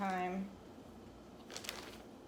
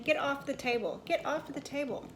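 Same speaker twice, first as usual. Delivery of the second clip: higher-pitched telling-off; firm, raised-pitch order to get off; real scolding; 5 semitones higher than usual. Real, not acted. Scolding her pet mid-story.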